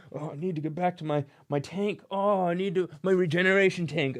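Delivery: mock whiny Boba Fett whine; imitating a whiny Boba Fett who keeps complaining. Vlogger mocks Boba Fett complaining about his tank, whiny mock voice. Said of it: "Always complaining".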